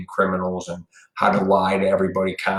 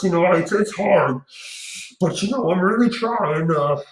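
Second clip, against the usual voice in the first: mask wearer parody; 5 semitones higher than usual. Retold or imitated. Mocking a masked smoker who can't quit, high put-on voice. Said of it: "talking like this to your friend".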